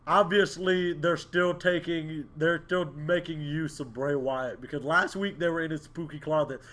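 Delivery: soft, measured worry; concerned. Real, not acted. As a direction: voice your doubts quietly and carefully. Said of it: "I'm concerned".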